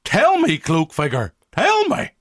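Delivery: high, pleading cries; desperate plea. Acted. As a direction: beg the figure for an answer. Marty pleads with cloaked figure.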